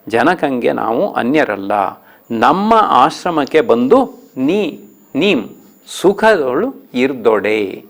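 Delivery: slow verse reading; poem recitation. Shown as a demonstration. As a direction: draw out the old Kannada verse. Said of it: "ಹದಿನಾರನೇ ಪದ್ಯ". (ನಿಧಾನ ಪದ್ಯ ವಾಚನ)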